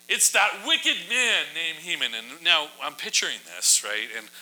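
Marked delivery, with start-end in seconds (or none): 0.1-2.1 higher, slow, dramatic accusing voice; with emotion. Shown as a demonstration. Esther naming Haman to the king, slow dramatic accusation. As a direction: drag out the accusation with theatrical weight. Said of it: "with some emotion".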